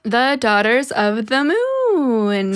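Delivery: slow, drawn-out announcement of the title; dramatic title. Shown as a demonstration. Host intoning the story title to her cohost, slow and grand.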